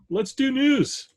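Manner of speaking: slow, high mock announcer. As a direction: announce it slowly, hammed up. Announcing news segment.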